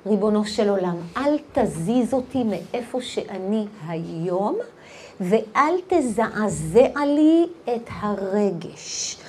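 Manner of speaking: soft, low prayer, slowing to near whisper; hushed plea. Acted. Woman asking God not to shake her feelings, hushed plea. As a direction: plead quietly with God, fading away.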